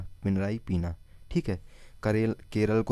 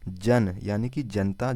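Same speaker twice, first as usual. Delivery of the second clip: slow explanation; slower than usual. Shown as a demonstration. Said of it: "तो कैसे याद रखेंगे?".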